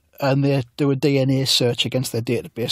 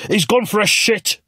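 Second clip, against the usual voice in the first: high, slow put-on voice; deadpan it in a silly high voice; mock Corbyn; 8 semitones higher, slower than usual. Corbyn explains Bragg's absence in a high slow voice.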